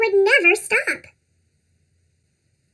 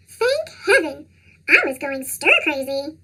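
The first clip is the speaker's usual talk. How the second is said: squeaky cartoon voice; 3 semitones lower than usual. Relieved parent.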